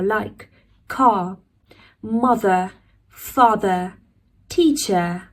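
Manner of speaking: car, mother, father said with no final R; British teacher models the dropped R; non-rhotic British R. Shown as a demonstration. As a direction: drop every final R, water as wah-tuh. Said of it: "We'll drop the sound of R".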